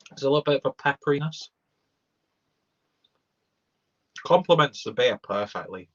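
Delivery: talking while chewing; mouth full. Real, not acted. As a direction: talk through a mouthful of food. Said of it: "Talk with my mouth full, sorry".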